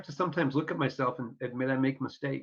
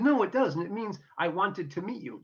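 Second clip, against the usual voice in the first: indignant denial; 5 semitones higher than usual. Retold or imitated. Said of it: "And I said".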